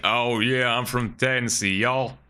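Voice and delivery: mock Southern Tennessee drawl; Tennessee accent. Streamer imagining a Tennessee local, mock Tennessee accent. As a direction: put on a playful Tennessee accent. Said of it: "what the Tennessee accent would be".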